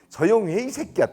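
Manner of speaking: high-pitched acted scolding; angry parent. Irate parent cursing official on phone, angry. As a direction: imitate a furious parent shutting someone up.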